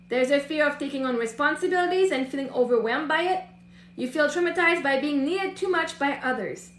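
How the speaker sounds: even, measured read-aloud; composed reading from a text. Real, not acted. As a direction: read the written passage steadily to a client. Reads a written passage aloud.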